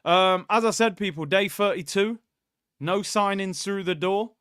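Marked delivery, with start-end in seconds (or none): 1.2-4.4 light Geordie announcer voice; Big Brother narrator in Geordie; Geordie accent. Pretend. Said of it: "that was my Geordie accent".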